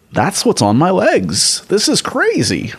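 high, slow amazed outburst; excited exclaim. Retold or imitated. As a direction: gasp it out, amazed. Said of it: "I didn't say it like that".

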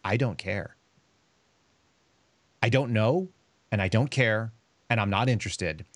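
flat, blunt mock brush-off; cold dismissal. Trainee brushes off a crying classmate, cold and blunt. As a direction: shut her down coldly, word by word. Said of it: "only way that I knew how to engage people".

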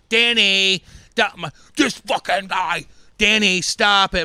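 high, loud, slow pleading mom; panicked mom. Retold or imitated. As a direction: beg the husband to stop, alarmed. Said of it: "My mom would be like".

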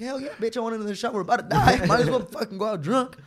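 high-pitched, hammed-up bravado; reckless enthusiasm. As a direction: act out a high, panicky-eager yes to drinks. Acts out reckless answer on falling plane.

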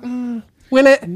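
high slow doubtful will it; drawn-out sarcastic doubt; skeptical reply. Retold or imitated. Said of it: "I'm just like".

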